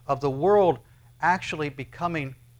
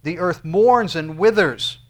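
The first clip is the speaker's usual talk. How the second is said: scripture reading; 4 semitones higher, 9 dB louder, slower than usual. Acted. Reading verse aloud.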